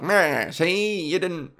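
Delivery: taunting cartoon villain; mock gangster gloating at the hero; Penguin. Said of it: "the Penguin is back".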